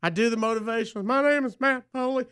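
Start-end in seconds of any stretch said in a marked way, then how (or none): 1.0-2.3 Matt Foley voice. Retold or imitated. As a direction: play an overexcited motivational speaker yelling. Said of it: "Matt Foley, uh, motivational speaker impression".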